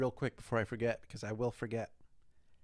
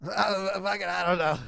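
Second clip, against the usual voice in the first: higher, louder laughing shrug; Tom Segura impression; 6 semitones higher, 7 dB louder than usual. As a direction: toss it off with a laugh. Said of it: "impression of both of 'em".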